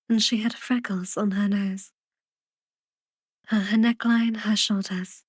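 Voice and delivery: measured, unhurried audiobook reading; lightly storytelling, phrase by phrase; story narration. A narrator's reading. Reads the story narration aloud.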